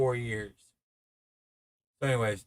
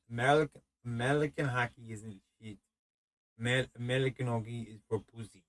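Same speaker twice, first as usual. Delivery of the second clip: put-on terrible Russian accent. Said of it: "I did this terrible accent and voice of him".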